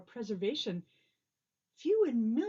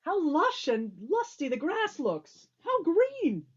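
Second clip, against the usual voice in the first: delighted exclamation; 4 semitones higher, 4 dB louder, slower than usual. Acted. Marvelling at the island grass.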